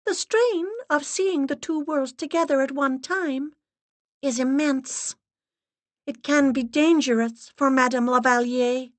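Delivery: high, grave, steady voice; solemn medium's assistant. Acted. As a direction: speak like a severe séance guide. Assistant's held voice.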